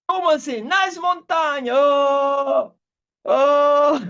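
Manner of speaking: high, slow incredulous exclamations; mock astonishment; surprised. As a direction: act stunned and disbelieving. Retold disbelieving reaction, high pitch.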